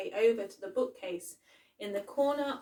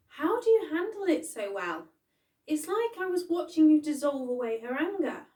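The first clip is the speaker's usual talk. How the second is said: put-on amazed child; 7 semitones higher, 7 dB louder than usual. A narrator's reading.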